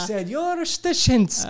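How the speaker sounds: slow, high villain voice; Doctor Claw villain voice. Retold or imitated. Telling friends about a teacher, in a slow high Doctor Claw voice. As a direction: turn slowly and purr like a cartoon villain. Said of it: "like a Doctor Claw".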